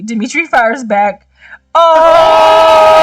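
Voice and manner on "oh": sudden loud yelp of surprise; surprised shout. Real, not acted. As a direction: blurt it out, startled. Reacting to game moment.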